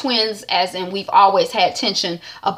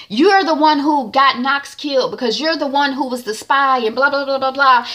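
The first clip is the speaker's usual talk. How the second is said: accusing Proctor; 6 semitones higher than usual. Retold or imitated. Proctor accusing agent in court.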